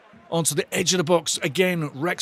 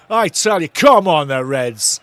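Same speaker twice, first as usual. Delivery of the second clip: cheering on; 6 dB louder, slower than usual. Real, not acted. Cheering the team.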